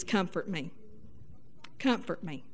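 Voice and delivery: a hushed longing plea; pleading softly. Retold or imitated. Wife's hidden wish to husband, soft pleading. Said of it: "what she really saying is".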